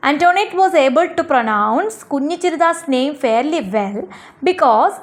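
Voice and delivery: slow, measured textbook reading; answer read-out. Acted. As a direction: read it out slowly for children to follow. Reads out the written answer. (പാഠത്തിലെ ഉത്തരം പതുക്കെ വായിക്കുന്ന രീതി)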